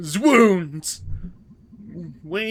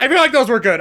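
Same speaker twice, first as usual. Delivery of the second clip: laughing; 4 semitones higher, 4 dB louder, much faster than usual. Real, not acted. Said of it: "said laughing then repeated".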